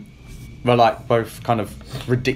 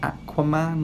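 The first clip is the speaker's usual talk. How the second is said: higher-pitched questioning of the name; mock incredulous; 7 semitones higher, 3 dB quieter, slower than usual. Host imitates film characters questioning Aquaman's name, mock incredulous. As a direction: imitate someone doubting a silly name. Mocking others' reaction to the name.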